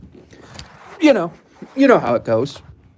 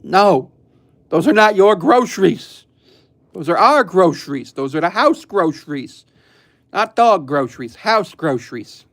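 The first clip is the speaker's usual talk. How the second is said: higher and louder mock telling-off; scolding the dog; 4 semitones higher, 4 dB louder than usual. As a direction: firmly lecture a greedy dog. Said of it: "and it's like".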